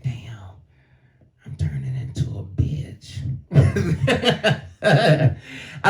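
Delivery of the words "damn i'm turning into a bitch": low, soft defeated mutter; dismayed mutter. Retold or imitated. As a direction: say it deflated, under your breath. Dismayed inner thought.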